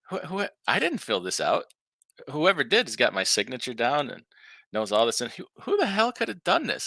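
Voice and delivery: rising high, bewildered disbelief; baffled. Retold or imitated. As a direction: sound totally baffled, voice climbing. Boss's confused coworker quoted.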